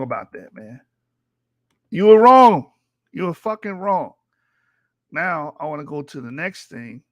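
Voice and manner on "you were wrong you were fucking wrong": loud, hot shout of you were wrong; angry shout. Real, not acted. Streamer yelling at the debate opponent, angry shout. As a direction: hammer the accusation home.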